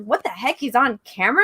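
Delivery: mock surprised double take; puzzled disbelief, lightly acted out; retold surprise. Guest recalls spotting the host's stream, retold surprise. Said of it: "I was like".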